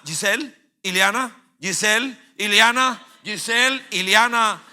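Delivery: worried calls for his wife and sister; calling out. Retold or imitated. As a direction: shout for them across the brawl. Looking for sister in fight.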